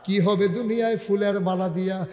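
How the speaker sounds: refrain chanted at an everyday pitch; restrained sing-song sermon refrain; melodic preaching. Real, not acted. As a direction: intone the question without raising the voice. Same refrain at usual pitch.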